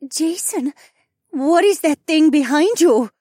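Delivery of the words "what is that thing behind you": high, loud mother's voice; alarmed mother. A narrator's reading. Mother spotting something behind her son, alarmed. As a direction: question it in high-pitched alarm.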